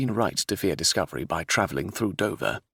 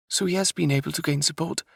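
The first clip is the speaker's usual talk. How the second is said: raised princess voice, pressing and urgent; 11 semitones higher than usual. Acted. Princess insists on passage to Lodore, urgent. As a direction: insist like a determined young royal.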